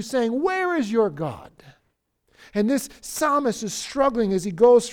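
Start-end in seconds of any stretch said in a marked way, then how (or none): 0.4-1.5 lightly voiced taunt. Enemy voice taunting you, mild jeer. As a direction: draw out the jeering question a little. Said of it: "it's taunting you".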